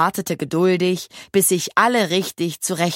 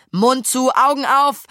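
raised, high-pitched order; firm command; 5 semitones higher, 4 dB louder than usual. A narrator's reading. Maja orders her riders before the curve, firm command. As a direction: order them sharply to pay attention. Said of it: "befahl Maja".

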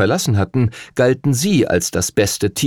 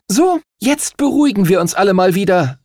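calling for calm; 10 semitones higher than usual. Acted. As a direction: settle the quarrel with authority. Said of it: "rief die Kapitänin der Himmelsstürmer".

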